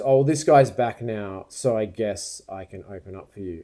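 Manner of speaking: slow start, trailing into a mock grumble; grudging mutter. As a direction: mimic a shop girl grudgingly giving in. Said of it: "she's muttered something under her breath".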